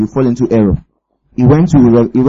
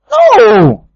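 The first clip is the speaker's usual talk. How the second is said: very high, loud cry of refusal; emphatic no; 3 dB louder than usual. Real, not acted. Preacher rejecting a wrong picture of God, loud high no. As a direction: slam the idea down.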